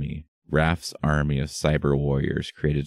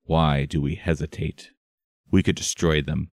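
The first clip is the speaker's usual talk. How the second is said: clenched jaw, tight voice; through gritted teeth. Acted. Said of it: "speaking through gritted teeth".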